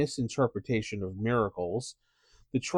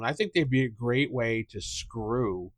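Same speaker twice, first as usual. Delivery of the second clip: ordinary talk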